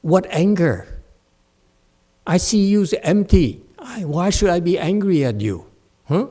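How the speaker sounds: loud, high mock indifference; mock dismissive monk. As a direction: scoff like a smug monk. Monks hiding behind emptiness, mocked.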